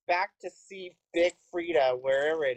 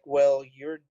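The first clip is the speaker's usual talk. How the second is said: calm bouncer; 5 semitones lower, slower than usual. Retold or imitated. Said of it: "she was all calm".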